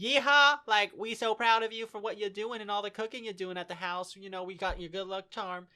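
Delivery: high-pitched, rattling country gush; super hick accent. Retold or imitated. Imitating the dub family praising Megami's cooking, hick accent. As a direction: chatter in a hammed-up hick accent. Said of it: "that's how they talk".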